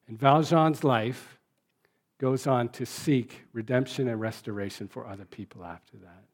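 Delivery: an even, measured reading of a novel aloud; story reading. A narrator's reading. Pastor reading Les Misérables to the church, steady story narration. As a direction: read the story to the congregation, lightly voicing the characters.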